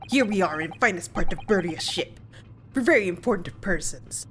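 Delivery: lightly done Russian sailor, boastful; a guard bragging in a mock Russian accent; bad Russian accent. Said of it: "my very bad Russian attempt".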